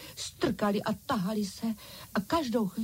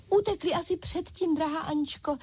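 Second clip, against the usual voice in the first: much higher doll chorus calling out; dolls crying out; 8 semitones higher than usual. A narrator's reading. Dolls answering Ančka, high cry. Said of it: "vykřikly panenky".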